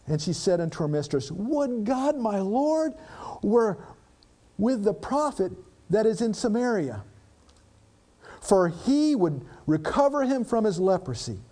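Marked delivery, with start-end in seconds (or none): 1.3-11.4 scripture reading. Acted. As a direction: read it out as holy text. Preacher reading scripture aloud.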